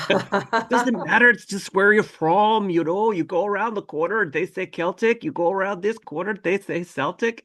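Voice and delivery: high-pitched mock-Scottish explanation; Scottish accent. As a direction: play a Scottish woman, high and lilting. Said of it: "full on Scottish, Scottish accent".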